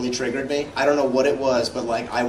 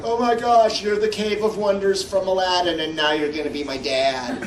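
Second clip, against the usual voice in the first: high, excited fangirl squeal; starstruck fan gush; 4 semitones higher than usual. Retold or imitated. Fan meeting Frank Welker, excited high squeal. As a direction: gush at meeting a childhood hero. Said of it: "I'm like".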